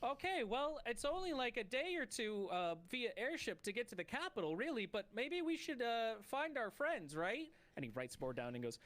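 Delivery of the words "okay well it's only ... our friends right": a creature speaking through its mask. Acted. GM voices masked creature character.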